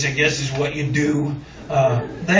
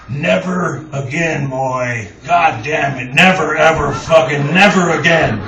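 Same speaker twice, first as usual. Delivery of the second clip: put-on gruff old-man scolding, building louder; angry voice; 4 dB louder than usual. Jerry Jeff scolding the hungover narrator, angry. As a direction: scold the boy, getting angrier. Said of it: "angry voice go".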